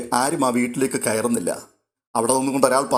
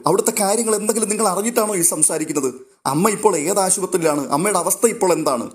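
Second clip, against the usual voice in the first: higher, rushed alarmed mother; alarmed questioning; 6 semitones higher than usual. Acted. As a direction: fire off questions in rising panic. Mother hears her mother is ill. (ഞെട്ടലോടെ പരിഭ്രമിച്ച ചോദ്യങ്ങൾ)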